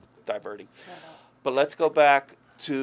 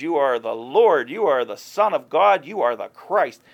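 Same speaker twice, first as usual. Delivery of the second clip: bold proclamation; 8 dB louder than usual. Retold or imitated. Peter proclaiming who Jesus is, boldly declaring. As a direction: proclaim each title with full weight. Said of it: "The one who proclaims".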